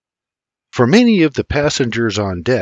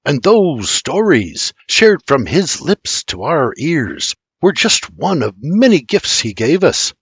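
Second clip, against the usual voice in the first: gentle; 4 semitones higher than usual. Acted. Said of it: "gently tapping".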